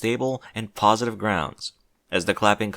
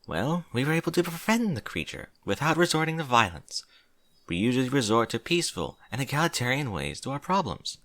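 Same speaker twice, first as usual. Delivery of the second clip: slightly higher princess voice; lightly voiced regal princess; 4 semitones higher than usual. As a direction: lightly play a princess addressing an assembly. Celestia answers the dignitaries.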